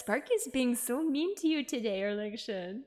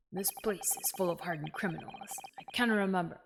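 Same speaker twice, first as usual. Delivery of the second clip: attempted Scottish accent, lower pitch; rough Scottish accent; 3 semitones lower than usual. Prison governor grumbling about hardened criminals, rough Scottish accent. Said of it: "I can't do a Scottish accent".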